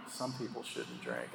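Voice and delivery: slow, very soft disapproval; hushed, drawn-out mimicked disdain; imitated disgust. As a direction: mutter it slowly as a mock judgmental onlooker. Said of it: "looking at you with disgust".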